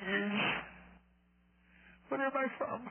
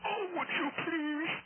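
high, slow hammed-up sob; mock tearful plea; 8 semitones higher than usual. Abbot caller begs the co-host for help in mock tears. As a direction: plead like a weepy old monk.

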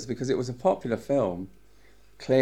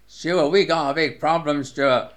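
alarmed urgency; 6 semitones higher, 5 dB louder than usual. Retold or imitated. Gus retold, alarmed at snapped film.

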